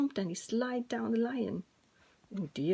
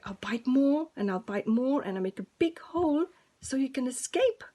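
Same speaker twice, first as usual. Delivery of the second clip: eager mouse; 3 semitones higher, 6 dB louder than usual. Acted. Mouse chewing net.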